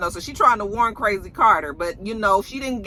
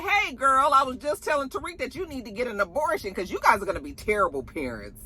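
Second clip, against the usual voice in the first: catty Effie; 5 semitones higher, 4 dB quieter than usual. Retold or imitated. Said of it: "Effie was just like".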